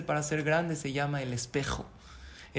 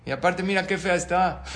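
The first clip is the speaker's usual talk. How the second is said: mock yelling; 3 semitones higher, 5 dB louder than usual. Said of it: "Empieza a gritar".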